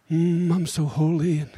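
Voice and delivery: hushed mock-pious sigh of holiness; mock holy. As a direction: mimic a self-satisfied churchgoer, hushed. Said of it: "we can't act so holy".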